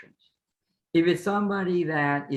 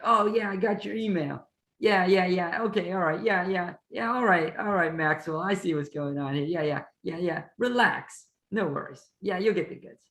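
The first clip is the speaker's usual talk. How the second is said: lightly voiced shady dealer, higher pitched; shady businessman; 4 semitones higher than usual. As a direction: brush off the worried buyer like a shady seller. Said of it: "I'm a little shady".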